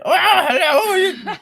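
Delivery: put-on high, slow girly voice with a laugh; man doing a woman's voice. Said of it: "Stargirl always sounded like".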